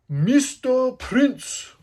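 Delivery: high, loud, very slow stylized announcement; showy alias call. Shown as a demonstration. Fan savouring Sanji's alias, drawn-out high shout. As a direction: belt out the name, stretching each word. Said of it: "I love saying it like that".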